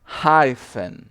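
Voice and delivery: Hyphen said loud and clear; pronouncing hyphen. Shown as a demonstration. Teacher modelling the hyphen symbol, loud and clear. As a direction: say Hyphen firmly. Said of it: "O próximo é o hyphen".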